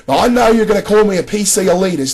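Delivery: badly faked Australian accent, quoting the video; terrible Australian accent. Quoting a YouTuber's PC elitist line back at him, terrible Australian accent. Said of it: "that's my terrible Australian accent".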